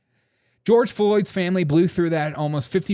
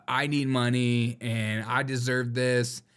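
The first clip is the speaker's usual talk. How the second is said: whiny mock entitlement; 3 dB quieter, slower than usual. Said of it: "It's just like".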